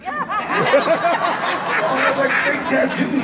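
breaking into laughter mid-line; laughing. Real, not acted. Remembering smearing an actor's fake tattoo, laughing. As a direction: laugh the words out, amused.

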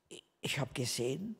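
whispered confidentially. Retold or imitated. Woman at the seminar whispering her vision to her. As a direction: lean in and whisper the secret.

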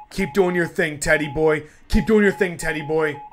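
root for him like a fan; excited cheering. Real, not acted. Player cheers on his character Ted, loud rising cheer.

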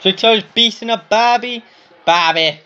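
put-on Australian accent. Shown as a demonstration. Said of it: "That was my Australian accent".

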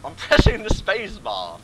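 loud, high, slow, laughing through it; laughing exasperation. Real, not acted. Gamer insists to friend, loud high laughing exasperation. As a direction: laugh out the complaint.

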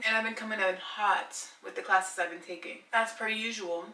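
talking through burps; words broken by a burp; burping after fizzy drink. Real, not acted. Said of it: "Sorry, I'm, like, burping as I'm speaking".

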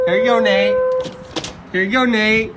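calling out loudly to wake him. Real, not acted. Friend waking Nate up with a loud call. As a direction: raise the voice to rouse a sleeper.

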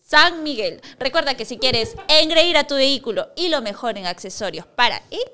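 radio commercial patter with measured phone number; sponsor ad read. Real, not acted. Host reading car-accessory sponsor to viewers, ad read. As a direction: sell it smoothly, phrase by phrase.

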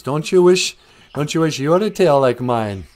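loud, taunting brag; boastful. Acted. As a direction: rub it in, loud and proud. Beaver brags at crow.

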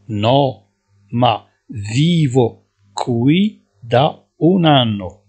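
each syllable drawn out, slowly; slow dictation. Shown as a demonstration. Teacher to Moroccan students, slowly dictating Italian. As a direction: spell it out slowly for learners. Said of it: "teacher repeating passenger line".

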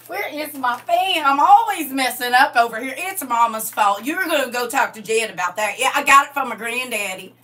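put-on country Southern fretting; playful country Southern twang; white country Southern voice. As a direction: grumble like a Southern trailer-park relative. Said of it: "my family in a white voice".

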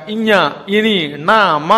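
ఇඤ, ఇని, నా, మా drawn out slowly through the nose; nasal sounds. Shown as a demonstration. Teacher showing the nasal letters, ఇඤ, ఇని, నా, మా said through the nose. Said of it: "అనగానే ముక్కుతో పలుకుతాం".

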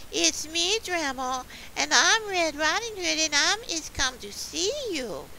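put-on high, loud little-girl call; high-pitched storybook girl; Little Red Riding Hood. A narrator's reading. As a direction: pipe up high as a small child to grandma. Little girl calls to her grandma.

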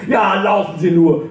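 slow, high taunt called down the stairs; sarcastic call after the fleeing neighbour; calling after her. Acted. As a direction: shout it after her as she runs off. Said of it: "rufe ich hinterher".

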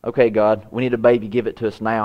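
mock-casual asking, no urgency; offhand prayer. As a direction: toss off a prayer as if in passing. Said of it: "it wasn't something that just passed".

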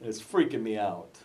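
imitated New York cop; light New York accent. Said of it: "I shouldn't do a New York accent".

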